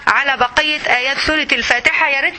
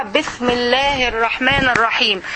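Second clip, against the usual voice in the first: slow recitation; 2 semitones lower than usual. Shown as a demonstration. Demonstrating starting al-Fatiha.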